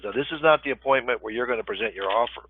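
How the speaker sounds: talking through the hiccups; hiccuping between words. Real, not acted. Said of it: "I got the hiccups".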